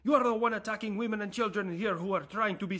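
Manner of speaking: high, loud accusing outburst; indignant accusation. Acted. Character hurls accusation back at America.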